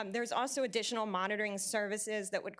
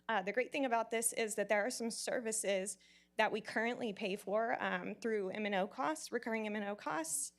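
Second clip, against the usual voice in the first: nervous, shaky voice; a voice shaking with nerves. Real, not acted. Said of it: "my voice is, like, super shaky".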